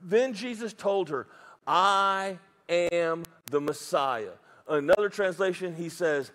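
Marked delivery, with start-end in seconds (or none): 1.6-4.3 very slow, weighty quoted confession; solemn declaration. Acted. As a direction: spread the words out with gravity. Quoting Jesus's solemn confession.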